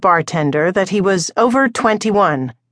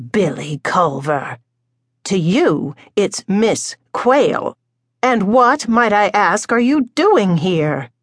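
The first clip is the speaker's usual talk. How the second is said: crisp; slower than usual. Acted. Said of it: "The crisp tone".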